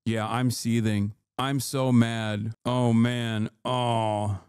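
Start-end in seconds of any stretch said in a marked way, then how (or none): 0.1-2.5 sarcastic seething. Pretend. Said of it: "guy is seething".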